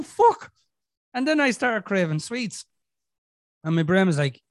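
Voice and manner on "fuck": high, loud yelped curse; retold panicked outburst. Retelling the moment anxiety hit, mock panicked yelp.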